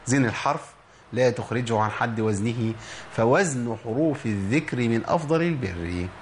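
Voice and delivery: slow verse recitation; measured recited couplet; recited motto. Shown as a demonstration. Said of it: "وشعارنا في البرنامج".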